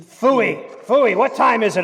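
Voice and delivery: irritable dismissal, voice lifted; impatient interruption. Acted. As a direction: break in, fed up with the reading. Impatiently cuts off the recipe reading.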